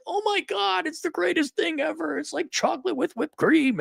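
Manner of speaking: high-pitched, hammed-up gushing; mock enthusiasm. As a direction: imitate an overexcited salesman's rave. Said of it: "There's no excitement or enthusiasm".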